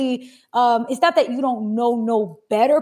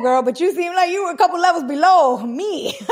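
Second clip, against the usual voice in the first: teasing through laughter, pitched up; higher, giggly disbelief breaking into a laugh; 5 semitones higher, 5 dB louder than usual. Real, not acted. Host teasing her friend over worse money habits, laughing.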